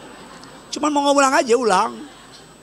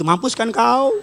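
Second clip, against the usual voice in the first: lightly put-on Batak accent, rising at the end; mock Batak scolding with a lifted final word; Batak parent; slower than usual. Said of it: "Kalau orang tua Batak gitu".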